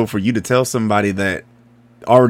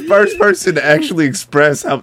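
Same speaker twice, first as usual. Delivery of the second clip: excited; 11 semitones higher, 4 dB louder than usual. Real, not acted. Excited praise.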